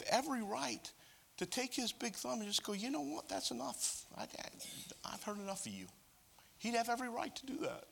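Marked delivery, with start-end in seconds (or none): 2.7-5.9 fed-up God. Acted. God losing patience, imagined.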